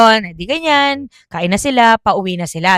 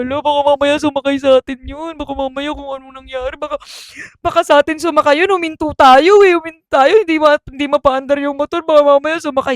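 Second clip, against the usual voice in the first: rising, faster worried voice; mock panic; 4 semitones higher than usual. Cousins panicking to each other about the ghost, mock fear. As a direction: fret that the ghost rode with you.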